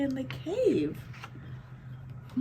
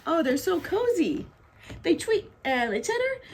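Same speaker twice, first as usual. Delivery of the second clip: lively storybook narration with swooping pitch; reading to children. A narrator's reading. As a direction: read it like a picture book to little ones. Reading picture book aloud.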